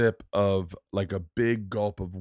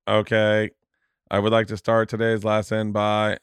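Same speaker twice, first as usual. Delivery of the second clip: lightly imitated computer-voice teacher; a hint of monotone speech-synthesizer delivery; Stephen Hawkins. Hawkins-like teacher opens his class in a sketch, mock computer voice. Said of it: "teaching a class full of kids in a wheelchair like Stephen Hawkins".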